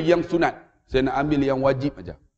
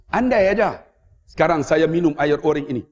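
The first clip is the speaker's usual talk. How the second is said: ordinary talk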